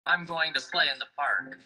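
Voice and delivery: brisk line dropping on "park"; falling statement intonation. Shown as a demonstration. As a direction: let the pitch fall at "park". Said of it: "sound also goes down with statements".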